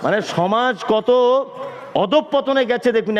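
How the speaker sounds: slow, word by word, chopped apart; staccato. Shown as a demonstration. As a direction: cut each word off separately. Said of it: "আমি একটা একটা কেটে কেটে বলছি".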